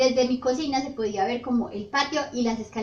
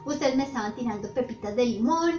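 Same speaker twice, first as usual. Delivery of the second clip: mock angry mom. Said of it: "mi mamá estaba así brava".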